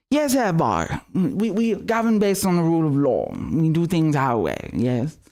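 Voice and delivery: mocking posh British accent, lightly done. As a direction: sneer it out in a Queen's English voice. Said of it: "You're great at that accent".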